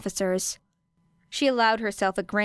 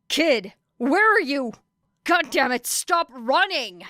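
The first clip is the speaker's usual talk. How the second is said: calling out after her; 6 semitones higher, 4 dB louder, slower than usual. Acted. Hero chasing, calling after her.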